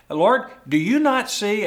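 loud, high, indignant complaint; Martha ticked off. Acted. Martha snapping at Jesus over her sister. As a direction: scold Jesus as an offended hostess. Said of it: "Martha was ticked off".

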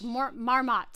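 slow "marmot" with a full "ah" in the last syllable; very hard ah. Retold or imitated. Demonstrating the actor's vowel, slow "marmot" with hard "ah". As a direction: draw out "marmot" as "mar-MAHT". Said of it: "He says with a very hard ah".

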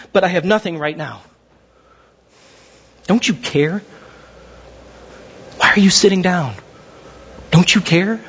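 low, weary lament; dejected plea. Acted. Lonely follower confiding in Jesus, dejected plea. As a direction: let the voice sink into lonely defeat. Lonely believer's acted prayer.

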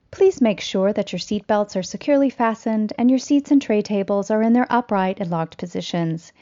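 airline cabin announcement voice; polished flight attendant PA read. Pretend.

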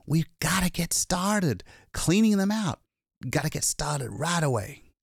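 a hunted man finally safe, still shaking; shaken exhausted man. Acted. Lois tells the attendant of his escape, frightened.

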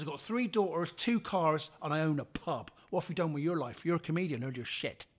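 loud, swaggering brag; cocky boasting. Retold or imitated. Old classmate bragging about his life, loud and cocky. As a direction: boast it at him, full of himself. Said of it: "He goes".

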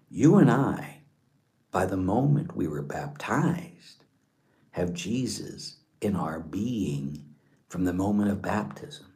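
hushed, measured wonder with long pauses; reflective meditation. Acted. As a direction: guide listeners softly into contemplation. Guides listeners through imagined holding of Jesus.

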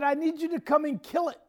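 high, insistent demand for help; imitated urgent plea. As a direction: beg like a frightened relative. Sister-in-law begs mom for help.

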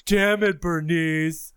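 loud campy diva exclamation; sassy drag queen. Acted. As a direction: belt it like an exasperated diva. Playful drag voice exchange.

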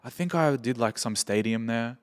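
quiet, offhand and unsure, like an awkward dude; awkward offhand guy. Retold or imitated. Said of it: "like, most awkward dude ever".

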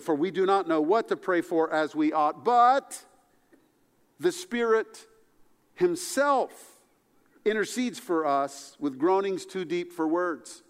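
rising to a high, loud peak on the Spirit himself; emphatic scripture reading. Retold or imitated. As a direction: lean hard into the Spirit himself. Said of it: "the emphatic way that Paul writes it".

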